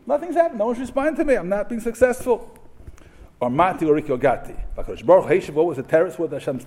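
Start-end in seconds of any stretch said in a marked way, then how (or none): 0.1-2.6 pleading complaint. Acted. Prophet complains nothing changed.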